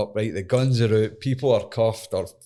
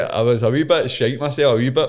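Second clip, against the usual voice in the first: ordinary talk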